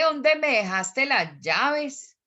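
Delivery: vallecaucano lilt, drawn out to the end; Valle del Cauca accent. Shown as a demonstration. Teacher demonstrating a regional question, in vallecaucano accent. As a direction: ask it in a slow valluno accent. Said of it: "le vamos a poner acento bayuno".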